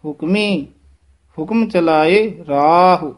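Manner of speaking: "ਹੁਕਮੀ", a clear rest, then slow remainder; pause after ਹੁਕਮੀ. Shown as a demonstration. Teacher modelling the rest, clear pause after "ਹੁਕਮੀ". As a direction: stop on "ਹੁਕਮੀ" before continuing. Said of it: "ਹੁਕਮੀ ਪਦ ਤੇ ਵਿਸਰਾਮ ਲਾਉਣਾ ਹੈ".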